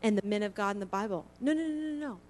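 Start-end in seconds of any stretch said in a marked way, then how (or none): 1.4-2.2 firm no. Real, not acted. Emphatic correction.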